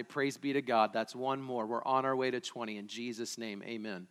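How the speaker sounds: hushed pastor's prayer fading at the close. Real, not acted. Leads a congregational prayer.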